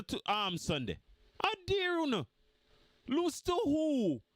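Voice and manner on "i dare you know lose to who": taunting. Real, not acted. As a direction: dare them, scoffing. Taunting rival fans.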